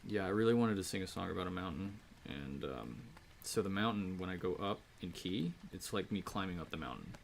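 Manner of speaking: fast, low mock earnest explainer; pretentious songwriter, rushed; lyric genius impression. Mocking a pretentious lyric genius, fast. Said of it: "the lyric genius, and he's like".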